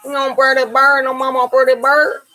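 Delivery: high, sing-song voice coaxing a parrot to speak; squeaky pet-bird coaxing; high sing-song bird talk. Real, not acted. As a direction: coo it up high so the bird copies you.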